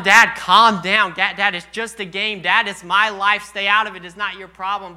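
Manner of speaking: mildly exasperated, insistent pleading; exasperated son. Retold or imitated. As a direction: act out telling dad to back off. Acting out sons telling dad off.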